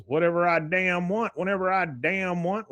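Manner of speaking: high, swaggering retold boast; defiant drifter. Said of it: "He goes".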